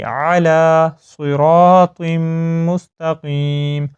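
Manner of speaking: علی with a throaty ع, not a glottal stop; clear ain in علی. Shown as a demonstration. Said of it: "حمزہ کی sound نہ آئے، عین کی sound". (علی میں عین کی صاف آواز)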